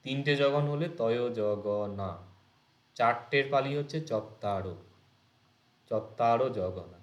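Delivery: slow, clear dictation pace. Shown as a demonstration. Teacher dictates the rule slowly for students to note down. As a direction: spell it out slowly so they can write. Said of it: "এগুলো লিখবে".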